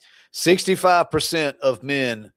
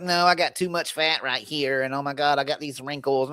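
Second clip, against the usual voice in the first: mock self-critical; 6 dB quieter than usual. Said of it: "looking in the mirror like".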